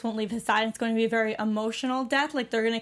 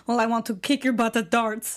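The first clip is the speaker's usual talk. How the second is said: light attempt at a Russian accent; imitated Russian-sounding accent; 2 semitones lower than usual. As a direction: quote her with a hint of Russian accent. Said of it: "Why does she have that accent".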